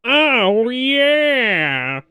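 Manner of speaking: high excited villain shout; hyped shout. Acted. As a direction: belt it like a cartoon villain. Hyped Snowflame catchphrase.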